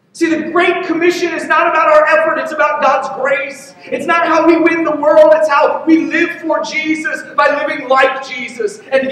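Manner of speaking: high-pitched, driving pulpit delivery; impassioned preaching. Real, not acted. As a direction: preach it with mounting conviction, point by point. Preaches the main point.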